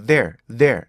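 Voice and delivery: "There, there" in two beats, end cut short; wrong two-beat way. Shown as a demonstration. Teacher mocking the common two-beat "There". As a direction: show the mistake in "There". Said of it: "이게 아니고요".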